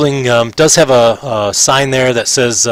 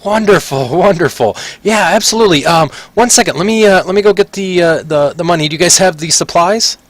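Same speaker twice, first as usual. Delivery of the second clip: higher, eager merchant voice; pitched-up excited merchant; delighted shopkeeper; 6 semitones higher than usual. Acted. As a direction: gush like a merchant glad of his goods.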